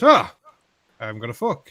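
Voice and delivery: put-on Italian accent. Joke teller voicing the Italian tourist in a mock accent. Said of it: "the Italian".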